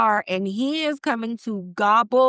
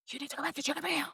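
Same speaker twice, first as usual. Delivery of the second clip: eerie radio voice; 4 semitones higher, 12 dB quieter, much faster than usual. Retold or imitated.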